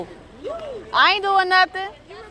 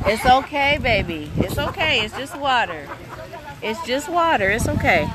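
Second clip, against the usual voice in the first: calm a frightened little one; soothing a scared dog. Real, not acted. Soothing scared child in water.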